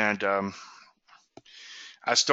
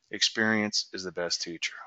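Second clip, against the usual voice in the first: calm, low and softer, a wise quiet lesson; 4 semitones lower, 9 dB quieter than usual. Retold or imitated. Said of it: "he said very calmly".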